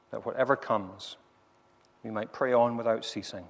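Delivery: earnest, measured congregational prayer with deliberate pauses. Real, not acted. Preacher asking God to help the congregation trust him, prayerful. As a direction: pray aloud in short, steady phrases.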